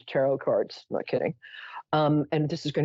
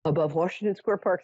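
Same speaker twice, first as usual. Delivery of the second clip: lightly voiced very reasonable caller; a hint of a trained stage voice, measured; reporting a UFO to the police in a lightly reasonable voice; theater-trained voice; 2 semitones higher than usual. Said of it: "sort of theater-trained voice".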